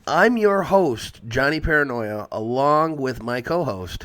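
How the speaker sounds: loud, punchy show-opening announcer voice; podcast host intro. Acted.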